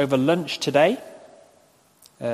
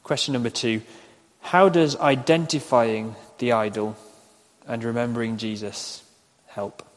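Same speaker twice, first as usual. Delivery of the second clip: slow dictation; 2 semitones lower than usual. Real, not acted. Preacher repeating second question for note-takers, slow dictation. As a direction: repeat it carefully for people writing. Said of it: "I'll say them slowly".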